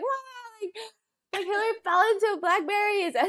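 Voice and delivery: breathless news. Retold or imitated. Announcing the crash at home.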